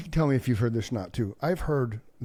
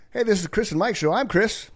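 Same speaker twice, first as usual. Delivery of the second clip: bright, higher host greeting; show intro voice; 9 semitones higher, 4 dB louder than usual. Pretend. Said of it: "we wanna be like".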